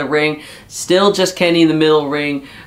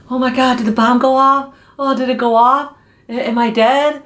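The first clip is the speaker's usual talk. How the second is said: higher, imitated panicky questions; mock panic; 7 semitones higher than usual. Wrestler asking his partner about the bomb, mock panic. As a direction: play-act fright after a bomb scare. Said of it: "I'm panicking".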